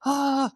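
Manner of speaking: high, acted-out "ah" of being struck; retold gasp. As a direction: let out a high, light "ah". Acting out being hit by light.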